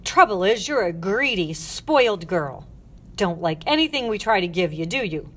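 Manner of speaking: loud, hard-stressed accusations; scolding tirade. Acted. Matron listing the girl's faults, angry. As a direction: berate her point by point, loudly.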